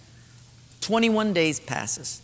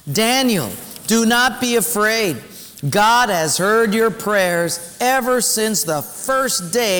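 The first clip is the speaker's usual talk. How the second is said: theatrical voice; 2 semitones higher than usual. Acted. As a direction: read it like a stage actor. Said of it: "read with me in your most theatrical voice".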